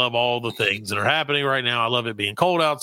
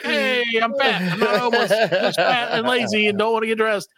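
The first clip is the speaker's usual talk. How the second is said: own retort; 7 semitones higher than usual. Retold or imitated. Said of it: "And I'm like".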